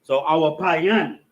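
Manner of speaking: awapayan said slowly, syllable by syllable; Hebrew word slowly. Shown as a demonstration. Teacher sounding out a Hebrew verb for students, slow and clear. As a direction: spell out awapayan in the sounds a-wa-pa-yan. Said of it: "But also plural".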